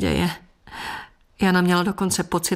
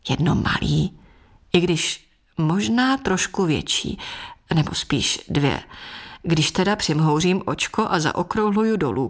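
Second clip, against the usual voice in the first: grinning. Acted. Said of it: "křenil se".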